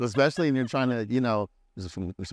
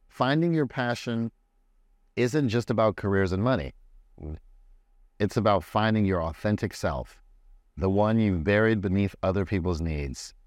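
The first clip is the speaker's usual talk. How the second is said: slow, measured read-aloud; quote reading. Acted. Host sharing the quote of the day, slow deliberate reading.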